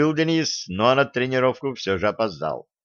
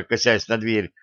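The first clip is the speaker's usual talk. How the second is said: ordinary delivery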